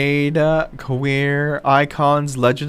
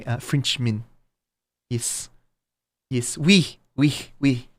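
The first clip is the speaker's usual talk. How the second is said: mock French accent, over the top. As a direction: play a cartoon Frenchman introducing himself in a French accent. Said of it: "I have a flawless French accent".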